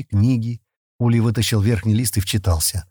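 ordinary delivery, nothing marked

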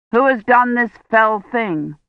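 gallant knight. Acted. Gawain retells questioning the maiden. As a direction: ask it gravely, like a hero. Gawain quotes his own words.

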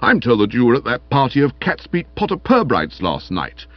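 sour, disapproving tirade; bitter. Acted. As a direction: reproach a hopeless reveller. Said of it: "said Stilton bitterly".

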